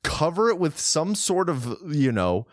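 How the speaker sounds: disbelieving recap, step by step; incredulous tone. Real, not acted. Co-host recaps the pit-digging plan, incredulously. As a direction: lay it out as if it's absurd. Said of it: "with that tone of voice, it sounds ridiculous".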